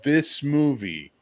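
very slow, drawn-out disbelief; incredulous disbelief. Retold or imitated. Telling a friend how stunned he was by his anger, slow drawn-out disbelief. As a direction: stretch each word in amazement. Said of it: "I'm like".

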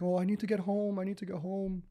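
high-pitched imitation of a panicked girl; fretting in a put-on high voice; mock panic. Stranded girl needs to get home, mock panic. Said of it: "panicked, like".

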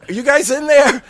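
eerie roommate calling in; high are you guys in there. Retold or imitated. Roommate voiced at locked door.

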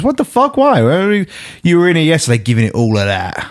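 high, indignant crab voice; sassy crab. Acted. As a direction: give the crab sass. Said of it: "And Crab says".

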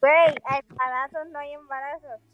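joking. Real, not acted. Teasing joke in a high voice.

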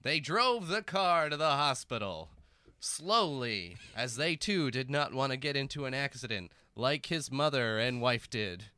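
slow dramatic narration; narrator voice. Acted. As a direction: narrate the drive gravely and slowly. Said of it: "narrator voice".

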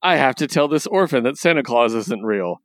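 hint of a gloating Saturday morning villain; mild hammed-up evil gloat; cartoon villain voice. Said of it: "read Skeletor or Rapscullion's entire speech".

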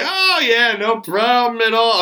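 lightly hammed-up casual reassurance, starting high; acting all cool. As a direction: play it off like a would-be hero. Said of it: "I'm trying to act all cool".

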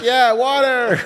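"Yeah, water" high, with an American "wahter"; mock American accent. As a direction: copy the American "water" back at her. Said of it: "I was like".

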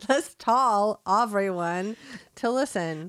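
put-on Rich Dicks accent. Host addresses listeners, drawn-out Rich Dicks accent. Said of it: "I just sounded like that right now".

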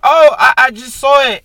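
high, lightly mocking coworker; lightly voiced polite woman; mock lady voice. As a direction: play her up as innocent. Mimicking the coworker again.

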